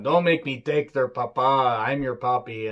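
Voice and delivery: a faint, slowed imitation of Eddie's Mexican-American accent. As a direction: lightly put on Eddie's Mexican-American accent, half-hearted. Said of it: "can't do an accent like that at all".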